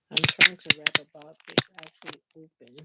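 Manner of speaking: loud, frustrated complaint about the open box; exasperated. Real, not acted. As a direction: grumble it out loud while fighting the wrapping.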